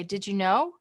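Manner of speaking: "know" lifted up at the end as a question; rising question tune. Shown as a demonstration. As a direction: end "Did you know?" on a clear upward swing. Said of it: "The way we have that inflection go up".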